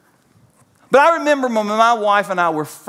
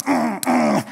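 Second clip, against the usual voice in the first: sulky hum. Retold or imitated. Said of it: "and I would say this".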